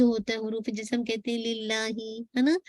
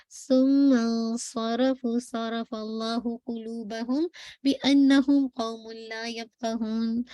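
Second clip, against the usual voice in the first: slow, chanted verse recitation; measured tajweed chant; Quran recitation; slower than usual. Acted. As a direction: recite the Arabic slowly and melodically.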